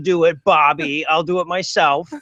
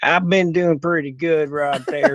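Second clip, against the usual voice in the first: put-on hick voice; 2 semitones lower, slower than usual. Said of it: "so I figure I'd talk like this".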